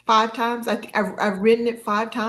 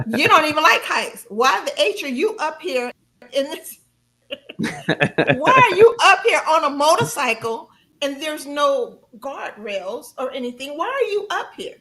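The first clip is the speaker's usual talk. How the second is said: scolding myself; 4 semitones higher, 4 dB louder than usual. Retold or imitated. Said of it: "I started cussing myself out".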